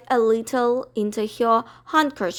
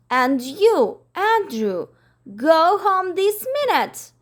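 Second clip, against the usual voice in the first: scolding Miss Lark; 5 semitones higher than usual. Acted. Miss Lark scolds her dog, high and indignant. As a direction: tell him off like a strict mistress.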